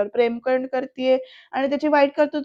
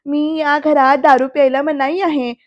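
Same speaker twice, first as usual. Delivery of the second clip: imitating a taunting put-on protest, slightly raised; mock play-acting; 3 dB louder than usual. Vidyadhar mimics the house rules at the family, mock play-acting. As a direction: parrot the house rules theatrically. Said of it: "असं नाटक करत विद्याधर म्हणतो".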